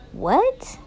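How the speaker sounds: high, stunned what; jolted disbelief; sharp surprised question; shocked what. Real, not acted. Reacting to shocking post.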